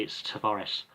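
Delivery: Tavares said as an Italian would. Shown as a demonstration. Talking through Italian pronunciation, Italian version. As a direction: give Tavares its Italian sound. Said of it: "From Italy".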